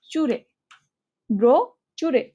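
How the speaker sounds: ব্রো then চুরে said as separate chunks; spelling pronunciation. Shown as a demonstration. Teacher sounding out brochure by its spelling. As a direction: read ব্রো চুরে letter by letter. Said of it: "বানানটা হচ্ছে ব্রো".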